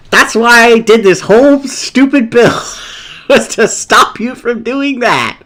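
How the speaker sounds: high, elated crowing; vindicated outburst at the opponent; triumphant gloating. Real, not acted. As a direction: crow about your plan paying off. Gloats that the build works.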